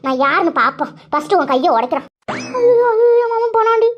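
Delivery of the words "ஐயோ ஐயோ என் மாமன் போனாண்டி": wailing lament. Acted. Woman lamenting that her uncle is done for, wailing. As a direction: wail it out in comic alarm.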